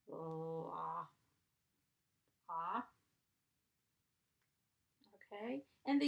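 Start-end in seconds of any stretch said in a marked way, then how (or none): 0.1-2.8 "Ah" repeated as a bare short a; sounding out vowel. Shown as a demonstration. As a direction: model "Ah" slowly for the class. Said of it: "short vowel".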